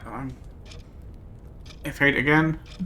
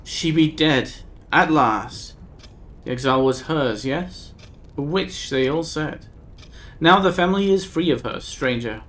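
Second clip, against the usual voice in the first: a hint of a grieving old woman, archaic; lightly voiced old woman; 3 semitones higher, 4 dB louder than usual. Old Nika telling the stranger of her dead daughter, lightly grave.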